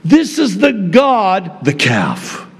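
Aaron declaring. Pretend. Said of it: "Aaron declares to them".

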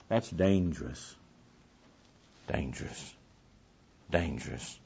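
low, soft and grave, sinking with each repeat; hushed warning. Real, not acted. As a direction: let the warning drop almost to nothing. Grave warning repeated, dropping away.

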